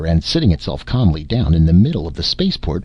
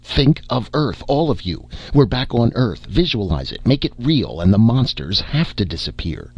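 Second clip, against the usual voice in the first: rallying cry; 5 semitones higher than usual. Acted. Daker rallying crew to visualize.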